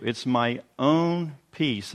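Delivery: "own" slow and leaned on; stress on own. Shown as a demonstration. Pastor stressing "own" to his congregation, slow emphasis. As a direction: dwell on the word "own", slowly. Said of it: "I want to emphasize the word own".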